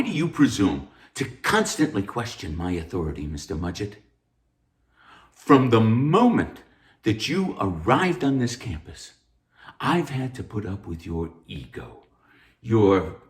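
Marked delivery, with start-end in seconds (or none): 5.3-9.1 angry tirade. Acted.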